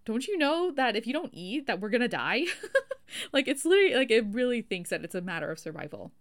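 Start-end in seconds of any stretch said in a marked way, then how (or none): 0.0-2.5 panicked lower brain. Retold or imitated. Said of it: "are screaming at me".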